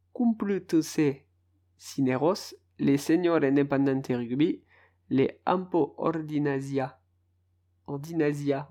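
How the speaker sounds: team names in an attempted Spanish accent; best Spanish accent. Shown as a demonstration. Podcaster lists Spanish rugby clubs in his best Spanish accent. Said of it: "Voilà, mon plus bel accent".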